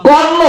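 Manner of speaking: কর্ম said instead of কলম, with an r sound; the boy saying কর্ম for কলম; mispronounced kolom. Retold or imitated. Dialect boy's mispronunciation for the inspector. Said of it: "কলম না কয়ে কইছে কি?".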